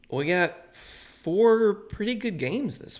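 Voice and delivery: hyped announcer. Acted. Hyped game intro.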